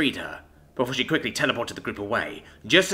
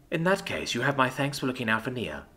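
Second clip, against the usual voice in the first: coldly; 5 dB quieter than usual. Acted. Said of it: "Renna coldly continued".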